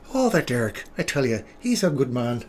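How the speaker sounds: mock Irish Canadian; Irish Canadian accent. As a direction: lightly put on an Irish-tinged Canadian accent. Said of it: "That's the Irish Canadian".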